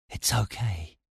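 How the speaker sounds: very soft, hushed reassurance; breathed. A narrator's reading. Stellos reassures the narrator while watching the thread, breathed. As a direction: let it out under your breath. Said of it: "he breathed".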